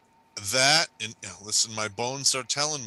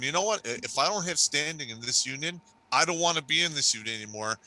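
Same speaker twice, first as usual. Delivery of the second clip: defiant outburst; 4 semitones higher than usual. Retold or imitated. Voicing Texas seceding.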